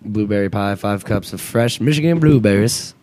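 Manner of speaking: a light mock Michigan accent reading ad copy. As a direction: read the blueberry ad in a faint Michigan accent. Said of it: "the best Michigan accent I've ever heard".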